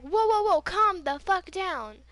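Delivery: loud, high imitation of the ex; retold startled objection; alarmed protest. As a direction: cut in to halt someone's tirade. Ex told to stop yelling.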